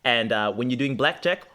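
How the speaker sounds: put-on amateur Australian accent, patchy; Aussie accent. The new boy giving blackjack advice, Aussie accent. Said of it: "you doing that accent".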